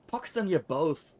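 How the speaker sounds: slow, spat-out curse; slow scornful curse. Acted. Anna cursing both of them, slow and scornful.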